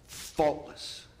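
whispered, smug and self-satisfied. Acted. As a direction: breathe it out like a smug secret. Smug final word of boast.

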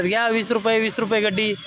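loud, high hawker's cry; vendor's call. Shown as a demonstration. Father showing his son how to hawk vegetables. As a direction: shout the price to passers-by. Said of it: "कशी ओरडतात".

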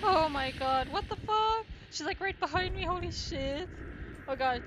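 high panicked shouting; yelling in terror while fleeing; being chased. Real, not acted. Monster right behind her.

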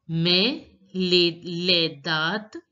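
mais les dates as "may lay dat"; les dates with "dat" ending on t; silent final s. Shown as a demonstration. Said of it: "the last letter S is not pronounced".

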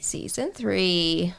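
slow dramatic whisper. Pretend. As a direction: breathe it out slowly like a teaser. Echoing whispered teaser.

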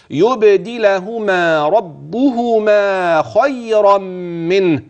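slow chanted recitation; slow Quranic recitation. Shown as a demonstration. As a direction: chant it with long vowels. Recites the verse.

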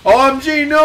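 high, loud, endlessly held "no"; hammed-up death cry; mock scream of terror. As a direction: wail the last word out absurdly long. Mailbox about to be chainsawed.

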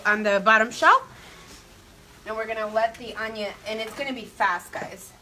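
sniffling after snorting spice; sniffly nose. Real, not acted. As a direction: talk with a runny nose. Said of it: "I'm still sniffling".

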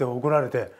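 usual speaking voice

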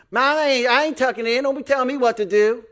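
high, loud indignant backtalk; defiant worker. Acted. Worker talking back to a McDonald's manager, defiant. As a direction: refuse with mock indignation.

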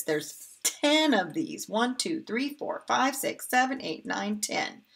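lively counting. Shown as a demonstration. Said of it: "counting scoops for kids".

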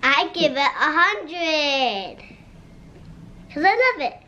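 flat robotic voice. Real, not acted. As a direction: speak like a robot. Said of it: "Why do you sound like a robot?".

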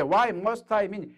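very slow English question; slow demo. Shown as a demonstration. Teacher modelling a question to an American, slow. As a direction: draw the words out for learners. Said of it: "미국 사람이 있어요".

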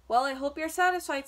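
indignant storybook rat; sneering. A narrator's reading. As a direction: sneer it out, put-upon and emphatic. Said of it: "sneered the rat".

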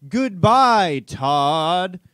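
high, loud alien ride voice. Retold or imitated. Ride's E.T. saying goodbye to dad, high alien voice. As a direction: squeal it like a cheesy alien robot. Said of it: "E T goes".

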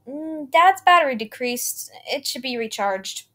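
mocking a broken toy, slow and eerie; eerie singsong villain voice; creepy toy maker. A narrator's reading. Toy maker mocks dying father.

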